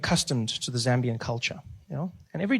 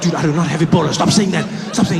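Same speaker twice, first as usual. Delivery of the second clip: loud protest; 5 dB louder than usual. Retold or imitated. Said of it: "I was like".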